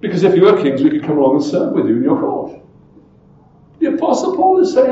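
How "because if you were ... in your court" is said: a touch of dry mock wishing; lightly sarcastic, speeding up at the end; understated irony. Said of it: "And sarcastically".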